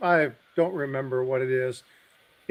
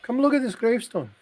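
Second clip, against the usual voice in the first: voicing a Welsh lady; 9 semitones higher, 4 dB louder than usual. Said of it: "And she goes".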